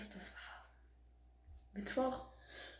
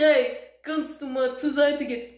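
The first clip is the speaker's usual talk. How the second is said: imitated deep male voice, barely lowered; put-on deep voice with an accent. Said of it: "Die tiefste Stimme ever".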